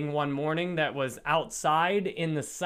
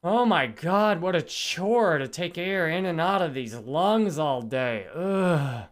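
exasperated inner voice. Retold or imitated. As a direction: sigh it out like breathing is a burden.

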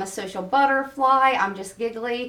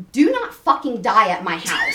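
inner panic; 3 semitones lower than usual. Retold or imitated. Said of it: "my thought is".

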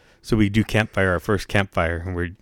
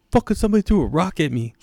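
high, fast indignant rant; big camper griping about a thrown rock, high and fast; mock angry complaint; 9 semitones higher, faster than usual. Max complaining, retold.

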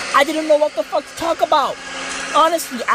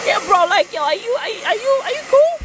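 high, wary; 9 semitones higher, faster than usual. Acted. Suspicious of the driver.

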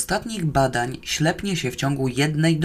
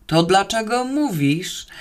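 higher, inquisitive voice; curious question; 5 semitones higher than usual. Acted. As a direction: ask with puzzled curiosity. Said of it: "Zachrypiał ciekawie". (zaciekawione pytanie, wyższym głosem)

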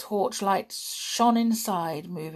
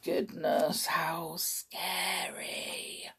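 mock scared; much slower than usual. Real, not acted. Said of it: "reader reacts to story".

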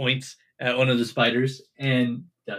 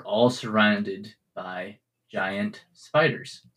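slow, measured game master narration; scene setting; 4 semitones lower, slower than usual. Acted. Game master tells waking players of giant spiders, scene setting. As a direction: set the scene in spaced-out phrases.

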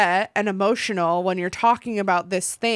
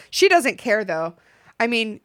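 ordinary delivery

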